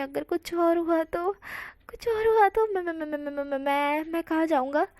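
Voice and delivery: mock panic, tripping over every word; panicked stammer. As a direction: voice jumps up, then stammers I-I-I. Wang ji embarrassed, panicking inwardly.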